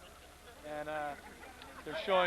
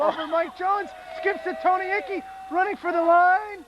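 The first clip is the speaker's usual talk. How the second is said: rising excitement; 4 semitones higher than usual. Pretend. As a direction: build up to the try call. Commentary building to a try.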